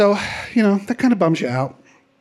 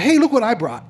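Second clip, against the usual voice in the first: eager hippie character; 6 semitones higher than usual. Acted. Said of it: "What a character".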